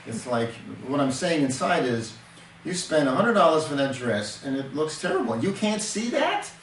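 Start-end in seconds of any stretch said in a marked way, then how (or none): 2.7-6.5 sarcastic disbelief. Shown as a demonstration. Husband belittles wife's expensive dress, sarcastic disbelief. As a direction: let the scorn rise at the end. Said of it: "I'm saying all that in that one sentence".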